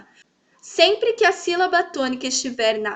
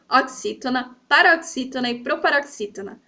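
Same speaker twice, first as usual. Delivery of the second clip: said quickly. Shown as a demonstration. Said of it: "Fala bem rapidinho".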